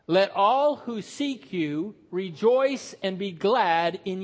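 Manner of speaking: slow, loud unison reading of the psalm; solemn psalm read with the congregation; congregational scripture reading. Acted. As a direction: read it aloud together, slow and full.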